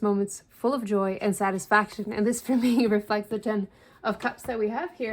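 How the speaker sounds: slightly breathless talk; out of breath. Real, not acted. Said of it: "and I'm so out of breath".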